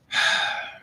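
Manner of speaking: slow audible calming exhale; long steadying sigh; deep breath out. Shown as a demonstration. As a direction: breathe out the anger. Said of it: "We take those deep breaths".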